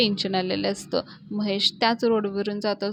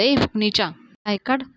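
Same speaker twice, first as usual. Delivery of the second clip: a loud snapped yell; retold shout; 5 dB louder than usual. Gardener yelling at whoever blocks the pipe, loud. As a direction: bark it at the man on the pipe. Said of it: "ते एकदम ओरडून म्हणतं".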